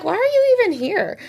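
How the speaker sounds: half-joking exasperation at an intruder; exasperated. Retold or imitated. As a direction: demand it in mock outrage. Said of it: "I'm like".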